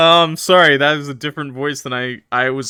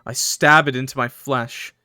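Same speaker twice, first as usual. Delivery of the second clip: measured, moody first-person narration; story narration; 3 semitones lower, 4 dB quieter than usual. A narrator's reading. Streamer reading a horror story to chat, measured narration. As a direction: read it as a grim tale.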